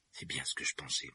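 muttered under the breath; half-voiced grumble to himself; muttering. A narrator's reading. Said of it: "marmonna-t-il".

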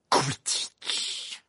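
Quidditch muttered under the breath, almost unvoiced. A narrator's reading. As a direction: mutter Quidditch to yourself in disbelief. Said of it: "marmonna-t-il".

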